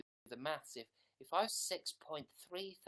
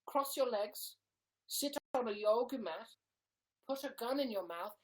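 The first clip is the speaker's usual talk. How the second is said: loud, raised-pitch commands; mock therapy instructions; 7 semitones higher, 6 dB louder than usual. Fake therapist instructing a client, loud and insistent. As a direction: issue the steps loudly, pitched up.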